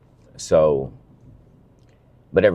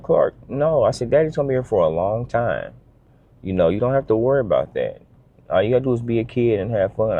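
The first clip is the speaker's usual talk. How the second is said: reassuring daughter; 5 semitones higher than usual. Retold or imitated.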